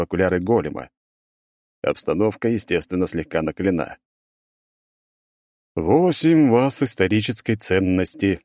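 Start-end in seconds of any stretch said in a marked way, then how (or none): 5.8-8.4 slow, tedious golem drone; droning robot voice. Acted. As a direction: list it like a bored machine. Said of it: "нудно перечислял здоровенный магический робот".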